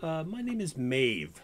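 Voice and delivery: put-on lightly British-accented saloon madam; slight British accent. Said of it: "she has a bit of a British accent".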